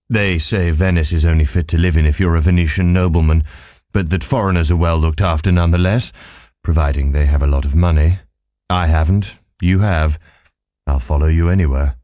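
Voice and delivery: understated world-weary philosopher; dry old Martin. Acted. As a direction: Martin shrugging off Venice, a hint of gloom. Martin voiced in audiobook.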